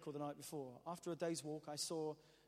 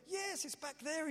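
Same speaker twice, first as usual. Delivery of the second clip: local man answering; 11 semitones higher, slower than usual. Retold or imitated. Local man giving directions.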